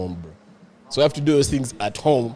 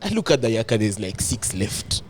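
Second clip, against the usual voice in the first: ordinary delivery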